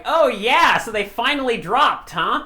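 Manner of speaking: teasing brother, high and loud. Retold or imitated. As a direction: tease like a smug older brother. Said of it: "your brother's just like".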